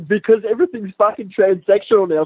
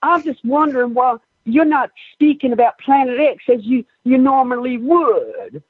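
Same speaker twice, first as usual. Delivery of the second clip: mock Black Southern accent; 3 semitones higher than usual. Calling into a show about Planet X, mock Black Southern accent. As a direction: stretch it out like a Black Southern caller. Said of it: "a bit of an accent where I was like".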